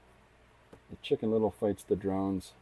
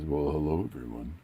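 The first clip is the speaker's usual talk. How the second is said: mock Lucy greeting; 3 semitones lower than usual. Teasing how Lucy supposedly talks, a mild put-on greeting. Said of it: "just like that".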